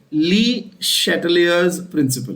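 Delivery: शैटलियर्स with SH, not CH; correct pronunciation. Shown as a demonstration. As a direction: say ली शैटलियर्स carefully, starting शै as "sha". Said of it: "The pronunciation is important".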